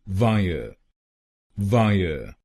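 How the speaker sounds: वायर said as "vaa-ye"; correct two syllables. Shown as a demonstration. Teacher rejoining the two syllables, careful pronunciation. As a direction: join वायर back smoothly as "vaa-ye". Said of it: "इन दोनों शब्दांशों की pronunciation है वायर".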